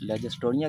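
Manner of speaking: लेगेस्टोनिया ending in "-toniya"; the mistaken "toniya" version, लेगेस्टोनिया; nursery mispronunciation. Shown as a demonstration. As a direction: say लेगेस्टोनिया with "TO-niya" for "tree-miya". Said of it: "तो वो गलत कहते हैं".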